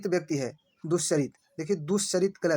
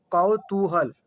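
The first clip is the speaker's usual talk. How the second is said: कौतूहल said louder, each sound clear as the right form; louder correct model; 4 dB louder, much slower than usual. Shown as a demonstration. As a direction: pronounce कौतूहल loudly and carefully as the correct spelling. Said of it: "कौतूहल सही है".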